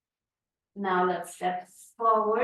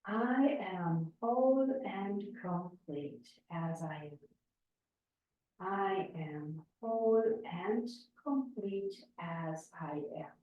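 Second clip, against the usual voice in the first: mantra said aloud; 4 dB quieter than usual. Shown as a demonstration. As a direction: recite it evenly, letting the end drop away. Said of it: "we're saying it out loud three times".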